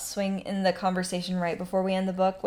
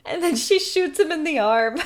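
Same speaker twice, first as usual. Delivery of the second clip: excited; 8 semitones higher, 5 dB louder than usual. Real, not acted. Excited retelling of the shooting.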